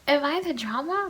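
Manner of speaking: high dramatic repeat. Pretend. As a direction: ask it again up high, playfully. Repeats question.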